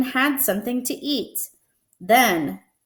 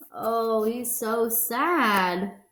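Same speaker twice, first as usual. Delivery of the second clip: sympathetic sad; much slower than usual. Real, not acted. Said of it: "reader comments sadly".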